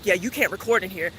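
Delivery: curt dismissive clerk. Retold or imitated. A customer mocks the clerk's blunt opening, mildly curt. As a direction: toss the line off curtly. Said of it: "don't come at me like".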